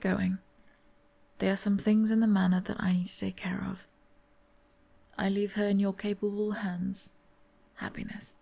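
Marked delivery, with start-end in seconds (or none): 1.4-3.9 quick hushed whisper; a quick breathy whisper as he slips away. Acted. Servant leaving, hushed. 7.8-8.3 whispered name. Acted. Quiet parting word.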